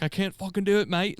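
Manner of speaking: put-on high, rough stab at a Scottish accent; hammed-up bad British-Scottish accent. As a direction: imitate a winded Scot, accent badly off. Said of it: "however the hell they talk".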